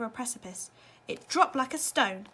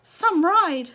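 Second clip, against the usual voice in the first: wry; 7 semitones higher, 12 dB louder than usual. A narrator's reading. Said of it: "said Mister T V, wiping his sweaty face".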